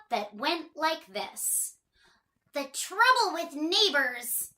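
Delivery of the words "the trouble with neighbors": higher character voice, musing; thinking aloud. Acted. Miss Trouble pondering her neighbours, in a higher voice. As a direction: realise it aloud. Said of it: "thought little Miss Trouble".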